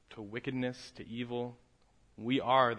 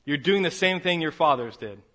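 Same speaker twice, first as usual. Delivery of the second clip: confronting the crowd; 4 semitones higher, 10 dB louder than usual. Acted. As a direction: point at them and say it hard. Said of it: "turns and says".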